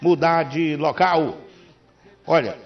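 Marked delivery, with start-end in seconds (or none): 0.0-1.4 upbeat, punchy live commercial read; radio ad read. Acted. Radio host reading a sponsor ad to listeners, upbeat ad read. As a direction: sell the moving company to listeners.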